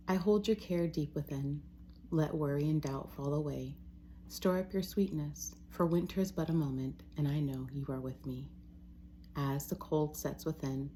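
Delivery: measured, even poem reading with pauses between lines; poetry reading. Real, not acted. Reading own poem to listeners, measured and reverent. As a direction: read each line as verse, letting it settle. Reads own untitled poems.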